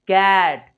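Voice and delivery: "कैट" loud, with a wide, drawn-out ऐ; accented ऐ vowel. Shown as a demonstration. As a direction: open the mouth wide on "कैट". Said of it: "मेरे मुंह को देखिएगा".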